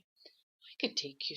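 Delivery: a hint of a confident little hero; lightly voiced brave turtle. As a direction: turtle offering to carry the sad fish. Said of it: "said the blue turtle".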